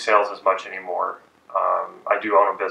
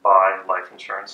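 dropped tonality. Shown as a demonstration. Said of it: "I dropped my tonality and said".

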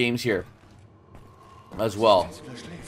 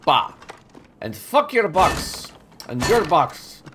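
slow put-on voice; much slower than usual. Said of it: "no idea why I was talking like that".

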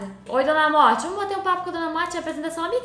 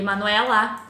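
ordinary delivery

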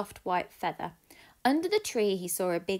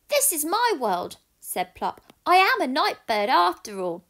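high, loud joyful owlet; delighted discovery; baby owl; 7 semitones higher, 7 dB louder than usual. Acted. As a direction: owlet realising he loves night. Plop the owl speaks.

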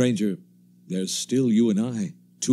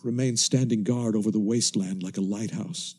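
steady, measured radio-drama narration; story narration. A narrator's reading. Narrator recounting the ruined land to listeners, measured and grave. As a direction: tell it like a survivor recalling the ruins.

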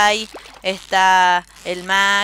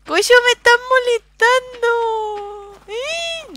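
mock outrage; 13 semitones higher, much slower than usual.

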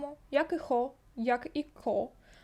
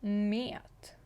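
whisper; 3 semitones lower than usual. Shown as a demonstration. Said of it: "але більш наближено до О".

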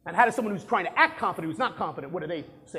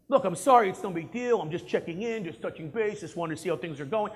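apologetic. Shown as a demonstration. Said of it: "almost apologetic".

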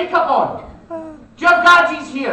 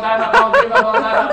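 mock Cantonese accent; 2 semitones higher, 3 dB louder, faster than usual. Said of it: "sounded like he was Cantonese".

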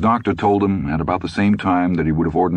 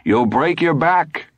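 slow, high-pitched lament; drawn-out wifely wail, understated; doleful; 11 semitones higher, slower than usual. A narrator's reading. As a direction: warn him mournfully. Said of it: "she reiterated dolefully".

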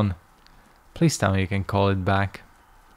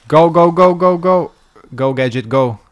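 excited; 8 semitones higher, 6 dB louder than usual. Real, not acted. Urging on in game.

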